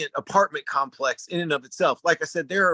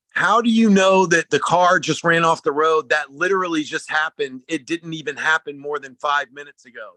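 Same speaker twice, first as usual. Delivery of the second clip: retelling the agent's shock, louder at the start; freaked-out disbelief; 5 dB louder than usual. Retold or imitated. Rental agent stunned he knows about the wreck, mock alarmed. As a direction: imitate her stunned, alarmed questioning. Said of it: "And she freaked out".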